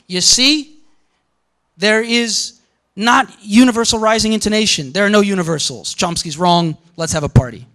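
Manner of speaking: hammed-up smug scholar, lightly voiced; a lecturer lightly mocking a rival scholar's gloating; mocking Levinson. A lecturer mimicking Levinson as a smug, gloating scholar. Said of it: "will say things like".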